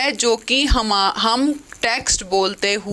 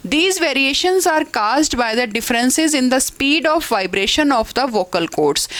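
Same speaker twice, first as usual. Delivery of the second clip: slow, careful textbook read-aloud; measured classroom dictation; 2 semitones higher, much slower than usual. Acted. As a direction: read the definition out slowly for the class. Reads English definition aloud.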